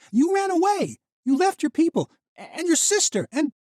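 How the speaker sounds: high, loud furious accusation; angry. Acted. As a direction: tear into him, fast at the end. Misha's rage peaks.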